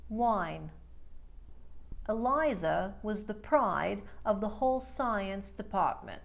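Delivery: New York drill words, evenly spaced; New York accent. Shown as a demonstration. Coach drilling learners on the vowel change, New York accent. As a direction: say each one clearly in a New York accent. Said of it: "in the New York accent".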